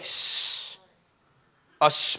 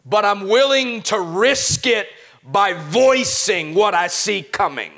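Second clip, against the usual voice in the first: voice of triumph; 5 semitones higher than usual. Acted. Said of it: "The voice that says".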